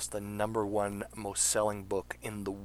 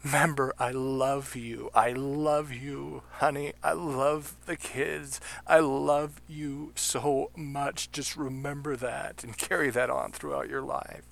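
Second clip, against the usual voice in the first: slow, higher, tender goodbye on a voicemail; voicing a last message; 5 semitones higher, slower than usual. Host voicing a Twin Towers victim's voicemail, slow tender farewell. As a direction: speak it like a final message to your family. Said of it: "every single one of them said".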